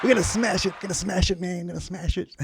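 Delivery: high, fast hammed-up hype; hyped rocker. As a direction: hype the crowd.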